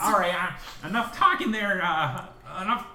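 high, loud cheery scout leader; rally the troop onward; scoutmaster voice. Acted. Scoutmaster to his scout, a high hearty rally.

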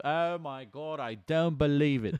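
high, excited football commentator call; play-by-play shout of disbelief, slow and high; British commentator. Retold or imitated. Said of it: "I wanna hear Martin Tyler and Alan Smith".

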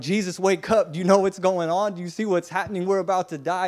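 panicked disciples. Retold or imitated. Panicked disciples wake Jesus.

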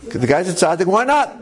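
very high, squealed okay; playful high-voiced why-not; exuberant agreement. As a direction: agree in a comically high pitch. Donor's offer gladly waved through.

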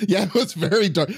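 laughing through the words; amused, with a laugh. Real, not acted. Laughing about dark Pinocchio.

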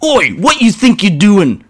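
high, loud orc bellow; bellowing orc boss. Acted. Orc boss catching grots robbing, bellow. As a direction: roar at the thieving grots. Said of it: "bellowed the large goth".

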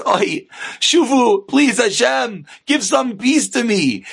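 drawn-out mock lament; exasperated plea. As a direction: plead slowly for a little peace.

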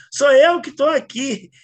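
loud, slow shout from afar; yelling across the room. Retold or imitated. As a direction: yell it slowly across the yard. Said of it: "o cara gritou lá de dentro do mato".

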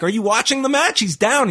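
high-pitched imitated retort; mock exasperation. Retold exasperated reply to Scarlett.

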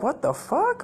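put-on very high, childlike disbelief; bewildered little kid. Kid hearing relatives curse uncle, bewildered high squeak. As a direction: imitate a startled kid, pitch shooting up. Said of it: "I'm just like a little kid".

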